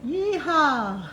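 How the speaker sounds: cheerful yeehaw to the audience. Real, not acted. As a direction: holler it like a happy cowboy. Cheering to viewers.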